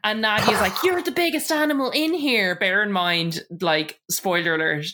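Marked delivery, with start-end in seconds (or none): 0.8-2.6 mock angry retort. Acting out Nadia's angry retort.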